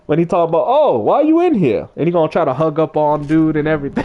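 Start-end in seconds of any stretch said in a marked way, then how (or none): 0.7-1.9 quick nod to the movie character; Chris Tucker impression. Streamer quoting the Money Talks prison scene, lightly voiced. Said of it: "talking like that guy from, uh, what, that movie, Money Talk".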